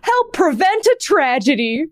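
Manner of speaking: clownish warning with swooping pitch; goofy Comic Sans voice. Shown as a demonstration. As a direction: read a serious warning sign like a goofing clown. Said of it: "sounds like when I try to do".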